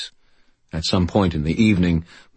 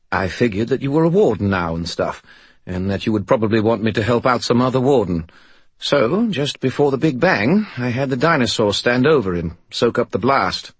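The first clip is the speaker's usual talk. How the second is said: high, eager cheeky sidekick; chirpy skull voice; 5 semitones higher than usual. Acted. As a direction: play a proud talking skull. Bob explains his plan.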